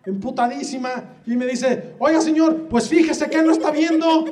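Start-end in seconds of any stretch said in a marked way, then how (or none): 2.0-4.2 mild mock angry mom. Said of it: "Llega la mamá, emputadísima".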